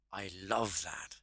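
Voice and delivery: slow, savoured delight with "love" drawn out. Shown as a demonstration. Coach picturing something liked, saying it with heartfelt enthusiasm. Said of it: "hear a lot more enthusiasm".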